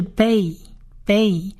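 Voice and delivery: bay said slowly, held long; slow, spaced-out bay; blending demo. Shown as a demonstration. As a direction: model "bay" as one blended syllable, then repeat. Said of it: "的音合起来是".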